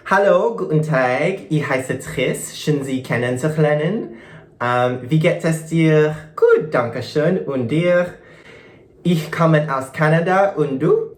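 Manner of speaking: slow, careful learner's German; German phrases. Shown as a demonstration. Showing viewers the German she learned, slow and careful. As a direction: recite your beginner German phrases slowly. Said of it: "Would you like to hear?".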